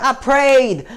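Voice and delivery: high, loud protesting cry; retold yelling. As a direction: cry it out as a grievance. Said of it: "like, yelling and".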